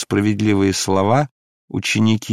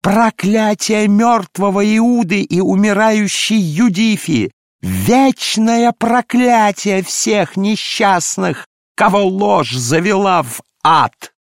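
much higher, loud, slow ecstatic wailing; frenzied invocation; 10 semitones higher, 5 dB louder, slower than usual. Acted. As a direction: cry out to God in a frenzy. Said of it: "исступлённо взывала". (исступлённый вопль к Богу)

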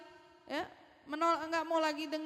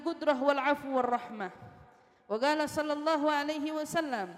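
Arabic recitation. Acted. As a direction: intone the sacred text with force. Recites Arabic hadith text.

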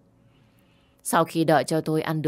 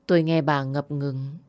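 ordinary delivery

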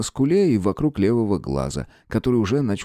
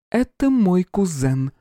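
higher, slow cool female voice; princess voice; 9 semitones higher, slower than usual. Acted. Princess to the master, calmly claiming her cousin. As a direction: assert it calmly from the doorway.

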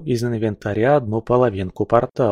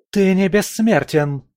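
higher, sharp defiant cry; defiant shout; 9 semitones higher than usual. A narrator's reading. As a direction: hurl it as a threat. Valkyrie threatens Oleg. (вызывающий выкрик)

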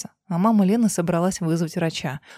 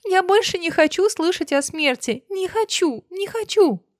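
hysterical; 10 semitones higher than usual. Acted. Dina hysterical after screaming.

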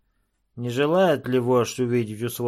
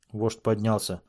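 ordinary delivery

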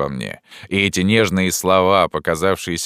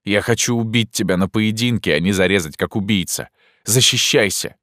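angry challenge; 4 semitones higher than usual. Acted. Narrator furiously challenges Pierrot to fight. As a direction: throw down the challenge hotly.

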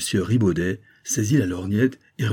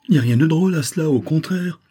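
high, fast indignant protest; 8 semitones higher, 6 dB louder than usual. A narrator's reading. Detective scolds laughing sailors, high and indignant. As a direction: sputter it out, high and quick, offended. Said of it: "s'indignait le détective".

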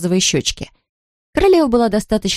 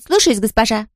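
obedient servant reply; 4 semitones higher than usual. Shown as a demonstration. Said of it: "Ты должна отвечать".

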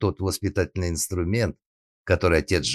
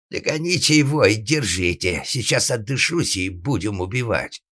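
raised, higher voice of an angry father; shouted order; 5 semitones higher, 3 dB louder than usual. Acted. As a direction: call the chase after him. Father shouts after the runaway.

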